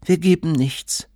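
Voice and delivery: high-pitched, automatic mother's refusal; mechanical brush-off. A narrator's reading. Mother turns away a man at the door, mechanical. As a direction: brush off a caller by rote. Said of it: "meinte Mutter mechanisch".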